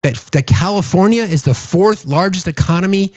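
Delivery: normal talking voice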